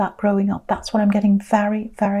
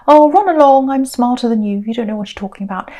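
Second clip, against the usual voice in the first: mock dismissive; 3 dB louder than usual. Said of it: "Dismissing, patted on the head".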